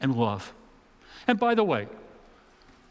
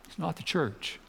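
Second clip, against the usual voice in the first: quiet restatement; 6 dB quieter than usual. Real, not acted.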